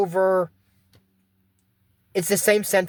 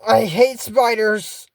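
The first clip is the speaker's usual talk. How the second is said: disgusted; 4 semitones higher, 4 dB louder, much slower than usual. Real, not acted.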